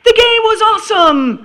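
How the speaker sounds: high, slow, gushing cheer; hammed-up giddy schoolgirl voice; gushing teen. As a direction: read it like a bubbly teenage fan. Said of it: "she'd write something like".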